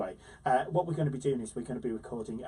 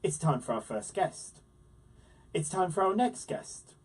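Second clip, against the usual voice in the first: lively scripted guest introduction; presenter's intro; 3 dB louder than usual. Acted. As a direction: build up the special guest.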